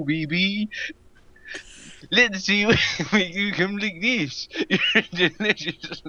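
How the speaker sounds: high, giggly hammed-up seduction; seductive voice. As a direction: play a sultry lover, laughing through. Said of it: "in the most seductive voice".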